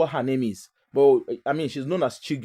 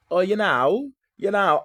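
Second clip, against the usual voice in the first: mock fake posh accent; 4 semitones higher, slower than usual. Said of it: "people should not speak through their nose".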